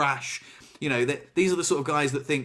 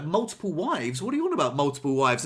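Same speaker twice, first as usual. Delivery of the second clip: incredulous retold wife. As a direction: imitate an indignant wife's questioning. Acts out the displeased wife.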